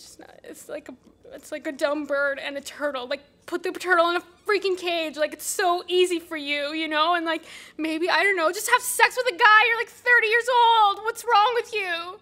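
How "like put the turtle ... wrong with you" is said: louder, rising into an exasperated rant; frustrated outburst. Acted. Annie lashing out at the group member, exasperated and loud. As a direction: let the frustration boil over at the group.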